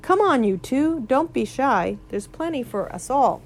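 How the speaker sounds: talking while chewing; words round a mouthful of grass. Acted. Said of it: "still chewing".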